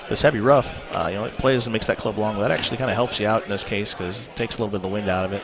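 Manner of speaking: loud. Real, not acted. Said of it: "now you guys asked for the volume".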